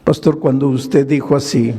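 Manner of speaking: ordinary talk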